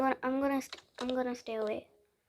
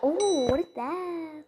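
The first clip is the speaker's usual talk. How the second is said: drawn-out startled "oh"; alarmed, stretched-out question; 4 semitones higher, slower than usual. Real, not acted. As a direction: react slowly, pitch jumping, to a strange sight. Startled by something in game.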